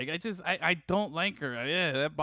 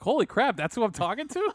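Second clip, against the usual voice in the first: retold amazement; 5 semitones higher than usual. Retelling a celebrity phone call to co-host, amazed. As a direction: re-enact the stunned realisation with a laugh. Retells discovering the caller was famous.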